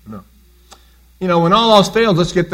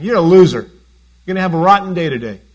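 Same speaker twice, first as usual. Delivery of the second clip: taunting inner voice; 4 dB louder, faster than usual. Retold or imitated. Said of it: "you hear this voice saying".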